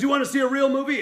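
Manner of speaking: loud, high angry challenge; Burt Reynolds taunting. Retold or imitated. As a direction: throw it in his face, voice way up. Angry star hurls DVD.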